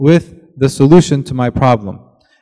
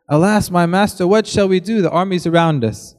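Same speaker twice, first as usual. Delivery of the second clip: nervous servant; 4 semitones higher than usual. Acted. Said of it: "servant very nervous".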